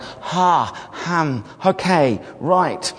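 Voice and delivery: imitating a flustered organizer, word by word; halting, caught off guard, mildly acted; taken aback. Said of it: "he was a bit taken aback by that".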